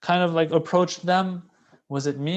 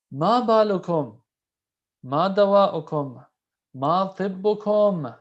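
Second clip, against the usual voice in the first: slow lament; 3 semitones higher, slower than usual. Acted. Quoting Imam's lament, slowed.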